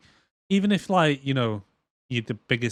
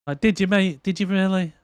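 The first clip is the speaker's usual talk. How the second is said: sarcastic; 7 semitones higher, 3 dB louder than usual. Real, not acted. Sarcastic retort to character.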